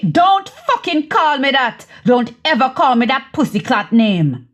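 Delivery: acted flare of temper; angry interruption. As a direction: cut in hard on the pet name. Acted quarrel, rejecting pet name.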